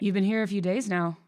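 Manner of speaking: put-on tentative, lightly Irish-tinged British accent; almost-Irish accent. Mister Gold greeting his housekeeper, tentative almost-Irish accent. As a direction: try a light Irish lilt. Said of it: "I'm almost doing Irish".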